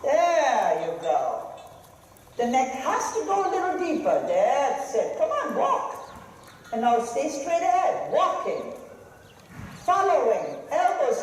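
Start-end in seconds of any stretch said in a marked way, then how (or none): 5.2-6.1 high, urgent call of encouragement; urging call. Real, not acted. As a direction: push the rider on with a high call. Instructor urging horse and rider.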